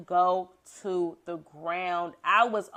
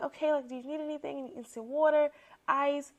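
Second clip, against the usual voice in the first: quick, higher eager helper; a helper offering a fallen guest water, quick and eager; fast helpful voice; 5 semitones higher, 4 dB quieter, faster than usual. Retold or imitated. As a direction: rush the offer like an anxious helper.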